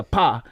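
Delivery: "pa" cut short; short stopped pa. Shown as a demonstration. Learner explaining Samoan vowels, short stopped "pa". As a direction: say "pa" with a quick stop, no drag. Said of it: "like, that stop, pronunciation".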